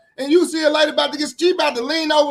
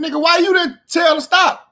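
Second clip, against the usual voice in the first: angry shout; 5 semitones higher than usual. Real, not acted. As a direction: fire the question at him. Angry rant at the father.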